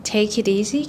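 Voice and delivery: "take it easy" run together quickly. Shown as a demonstration. Teacher giving the fast everyday form. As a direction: say "take it easy" at speaking speed.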